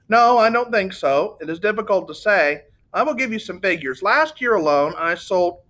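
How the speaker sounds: a lightly voiced gushing Italian; voluble Italian salesman. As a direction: gush out memories like a proud salesman.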